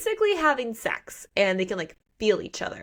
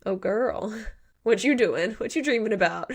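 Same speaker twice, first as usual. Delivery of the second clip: teasing wolf friend; 2 semitones higher than usual. Retold or imitated. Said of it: "He's like".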